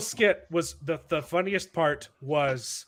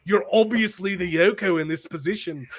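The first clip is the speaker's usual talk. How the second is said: imitated British accent of a famous band's members; 2 semitones higher than usual. Jesus explains the comparison to Mary, in a mock British accent like a famous band's. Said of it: "they're all talking in their British accents".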